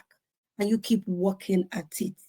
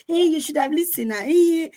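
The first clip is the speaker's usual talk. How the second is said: scolding parents; 7 semitones higher than usual. Retold or imitated. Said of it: "They're like".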